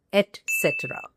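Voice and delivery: "et cetera" as et-SET-uh-ruh; correct pronunciation. Shown as a demonstration. Teacher naming the most abused word, "et cetera" with a t. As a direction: clear t closing "et" in "et cetera". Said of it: "you heard it right".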